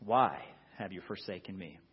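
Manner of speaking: the question asked again in quiet anguish; despairing. Acted. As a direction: let the doubt and fear sink in. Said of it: "There's a sense of doubt".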